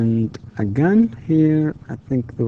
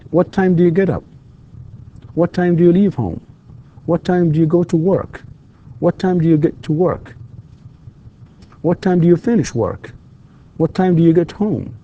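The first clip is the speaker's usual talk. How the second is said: questions starting higher, with "up", "home" and "work" falling at the end; falling intonation; 4 semitones higher than usual. Shown as a demonstration. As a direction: let each question drop on its last word, "up", "home", "work". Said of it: "falling intonation here, as I said with these questions".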